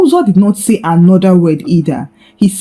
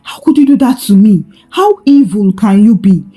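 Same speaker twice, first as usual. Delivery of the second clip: raised, rising anger at the lies; angry accusation. Acted. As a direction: confront them, voice climbing, then quickening. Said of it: "He stormed into the house angrily".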